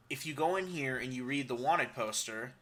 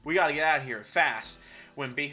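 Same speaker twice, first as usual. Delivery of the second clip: louder, hurried cowboy warning; urgent cowboy; 3 dB louder than usual. Acted. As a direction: warn them to run. Player warns outlaws.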